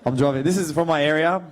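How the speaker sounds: Punchbowl Lebanese-Australian accent. Shown as a demonstration. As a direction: talk like a Punchbowl local. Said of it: "That's the accent".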